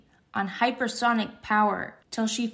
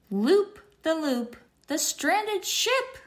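calling out; 5 semitones higher than usual. Acted. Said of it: "calls Luna".

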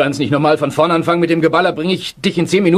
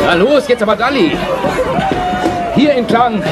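hurried raised voice leading someone out; urgent calling; 13 semitones higher, slower than usual. Acted. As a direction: shout directions during an air raid. Evakuierung bei Angriff, Rufe. (eilige, laute Rufe)

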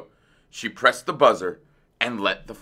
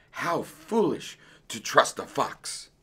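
soft, slow self-reproach; muttering; 4 semitones higher, 6 dB quieter, slower than usual. A narrator's reading. Dentist regretting that he helped a fox, muttered. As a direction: grumble it under your breath. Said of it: "muttered Doctor DeSoto".

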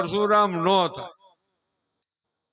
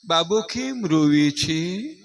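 fussing mother; 3 semitones higher, slower than usual. Retold or imitated. Anxious mother fussing over her crying baby, slow and doting. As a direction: drag it out like an overanxious mom. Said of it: "ત્યાં તો એની mummy".

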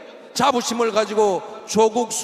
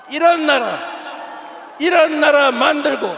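rallying cry; 4 semitones higher, 4 dB louder than usual. Real, not acted. Climactic appeal to the crowd.

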